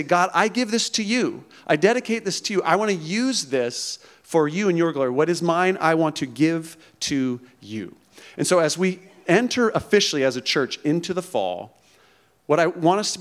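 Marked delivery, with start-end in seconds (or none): 0.0-7.9 lifted, earnest prayer voice; sincere prayer. Pretend. A worshipper's prayer voiced for the congregation, earnest and lifted. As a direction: offer it up to God, heartfelt. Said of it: "I want you to say".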